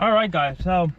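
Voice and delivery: talking around a pen held in teeth; pen in mouth. Real, not acted. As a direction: speak with a pen between your teeth. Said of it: "think there's a pen in my mouth now".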